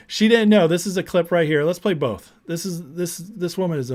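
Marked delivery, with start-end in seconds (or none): 0.1-0.7 louder, higher attempt at a New York accent; hint of a clumsy New Yorker; New Yorker impression. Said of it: "I cannot do New Yorker".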